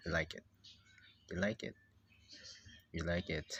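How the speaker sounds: low, firm statement; firm insistence. Acted. Telling the reluctant character its opinion, low firm insistence. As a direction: state it low, allowing no argument.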